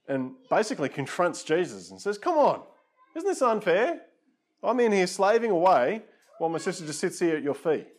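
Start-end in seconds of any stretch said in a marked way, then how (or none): 2.2-7.9 much higher and louder, fed-up complaint; exasperated outburst. Acted. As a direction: throw your hands up at Jesus, pitch high. Martha confronts Jesus, exasperated.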